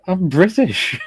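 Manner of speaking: high-pitched mock outrage; retold indignant protest. Neighbour insisting to pub staff that he belongs, imitated indignation. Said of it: "he was raging".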